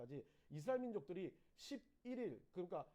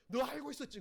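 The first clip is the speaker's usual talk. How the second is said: friends shouting an accusation, mildly loud; half-hearted retold shout; retold yell; 6 semitones higher, 8 dB louder than usual. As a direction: fling the accusation in a mock yell. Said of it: "소리쳐가지고".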